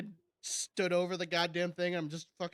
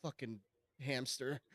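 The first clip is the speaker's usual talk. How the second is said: hushed mock awe; 7 semitones lower, 12 dB quieter than usual. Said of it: "You're like".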